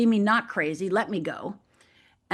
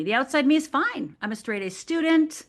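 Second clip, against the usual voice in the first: lightly acted "I'm fine" front, higher pitch; insisting all is well, pitched up; outwardly fine; 4 semitones higher than usual. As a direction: put on a mild show of being fine. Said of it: "the outside me and the inside me".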